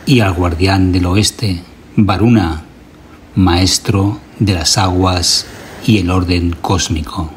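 solemn chant-like recitation in measured phrases; ritual invocation. Acted. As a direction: invoke the gods firmly, pausing for listeners to repeat. Leads a repeat-after-me ritual invocation.

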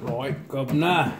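hammy London Cockney greeting; Cockney accent. Pretend. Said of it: "Gotta use my best Cockney accent for this".

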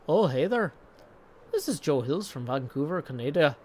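attempted Canadian voice slipping into Irish; lilting, badly faked Irish accent; mock Irish Sea accent. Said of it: "I've got an Irish sea accent".

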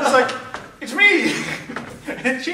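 loud laughing words. Real, not acted. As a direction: laugh through the line. Laughing through blooper.

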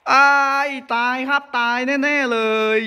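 panicked wail. Real, not acted. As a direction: wail that you're done for. Trapped, granny coming. (โอดครวญตื่นตระหนกเสียงสูง)

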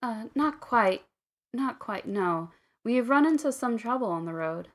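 lightly voiced hesitant woman; hesitant tiefling woman. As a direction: speak up hesitantly, stretching the first words. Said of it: "hesitantly speaks up".

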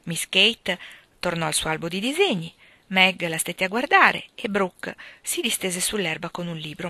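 usual speaking voice

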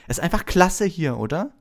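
put-on high-pitched gushing boy; excited young admirer, high voice; enthusiastic Colin. A narrator's reading. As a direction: chatter on in high, thrilled fan mode. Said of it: "holte vor Begeisterung tief Luft und sagte".

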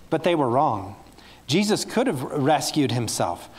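put-on storybook reading to children, measured and earnest; story narration. A narrator's reading. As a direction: tell it gently to a room of kids. Reads Bible story to children.

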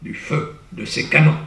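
grand theatrical verse reading; declaimed verse. Shown as a demonstration. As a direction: declaim the poem with rising fervour. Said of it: "Vous voyez, c'est enlevé".

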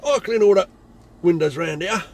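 loud menacing threat; aggressive threat. Retold or imitated. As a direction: repeat the threat with force. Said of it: "trying to be aggressive".

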